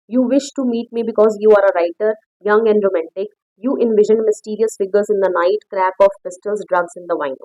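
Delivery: reads the English line slowly and carefully; slow story reading. Acted. Teacher reading the story text aloud to students, slow and careful. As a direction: spell out the text slowly for the class.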